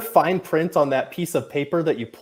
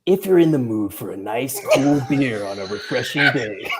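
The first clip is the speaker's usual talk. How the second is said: sexy radio voice. Pretend. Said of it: "doing the sexy radio voice".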